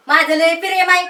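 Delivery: scornful parroting of a lover; mocking echo. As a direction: throw the declaration back in mockery. Aunt mockingly echoes his declaration. (टोमणा मारत नक्कल)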